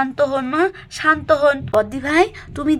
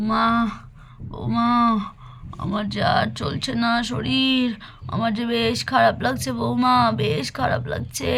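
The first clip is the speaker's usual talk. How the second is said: lightly voiced weak old woman, a bit lower and breathless; feverish grandmother; 3 semitones lower than usual.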